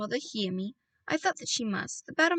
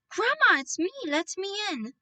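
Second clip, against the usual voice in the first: a high, loud, urgent call; 9 semitones higher, 4 dB louder than usual. A narrator's reading. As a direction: shout to be let in, pitched high. Boy calls through locked door.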